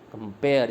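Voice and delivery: कंपेयर with emphasis on PARE; stress on P. Shown as a demonstration. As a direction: hit the second syllable of कंपेयर. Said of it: "stress है पी पे".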